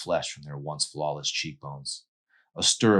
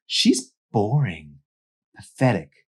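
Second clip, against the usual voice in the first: contemptuous sneer; 5 semitones higher, 7 dB louder, slower than usual. Acted. Mandy insulting Emery.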